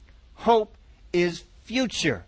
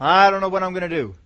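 mock hopeless whine; 3 dB louder than usual. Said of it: "What's your hope?".

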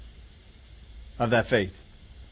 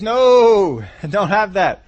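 louder, sharp no with a laugh; firm no; 5 semitones higher, 8 dB louder, much slower than usual. Acted. Jesus telling the disciples to drop that attitude, louder and firm. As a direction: cut the idea off at once. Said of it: "what he's saying is".

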